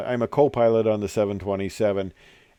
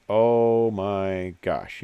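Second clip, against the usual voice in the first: slow awed sigh; 3 semitones lower, much slower than usual. Retold or imitated. Riker's slow awed reply.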